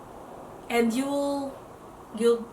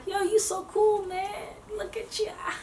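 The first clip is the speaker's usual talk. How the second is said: hyping up a dude; 9 semitones higher, 6 dB quieter than usual. Pretend. If you're a guy.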